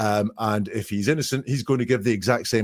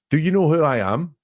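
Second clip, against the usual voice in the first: mock haughty, a touch higher; haughty challenge; 6 semitones higher, 3 dB louder than usual. Suspect challenging the journalist, lightly mock arrogant.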